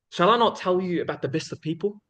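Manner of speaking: measured question, held open at the end; storytelling suspense. Acted. Speaker quoting the Prophet's question to the people, storytelling suspense. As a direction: build suspense with an unhurried, rising question. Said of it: "sense of storytelling and sus-, suspense when he'd talk".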